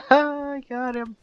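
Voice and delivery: high, slow triumphant yell; excited shout. Real, not acted. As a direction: crow with delight, drawn out. Triumphant goose catching gardener.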